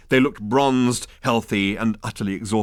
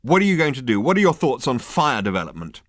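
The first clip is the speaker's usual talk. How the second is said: louder, demanding questions; rounding on him; 5 semitones higher, 5 dB louder than usual. Acted. Ford rounding on the hairdresser, demanding. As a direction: press him hard for answers. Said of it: "rounding on him".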